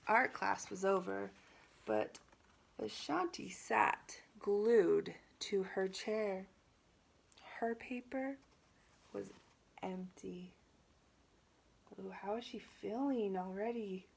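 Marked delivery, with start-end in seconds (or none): 0.1-10.5 measured storybook narration with deliberate pauses; picture-book reading. A narrator's reading. Teacher reading a picture book to students, storybook narration. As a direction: read it aloud to children, phrase by phrase.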